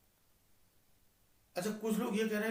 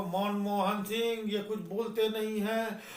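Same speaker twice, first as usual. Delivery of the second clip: mimicking Modi; 2 semitones higher, slower than usual. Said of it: "Modi जी थे जो मनमोहन सिंह को".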